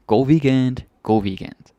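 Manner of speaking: "God weekend" tossed out high and loud, then repeated; breezy shop-counter "God weekend"; casual everyday greeting. Shown as a demonstration. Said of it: "we're just gonna say".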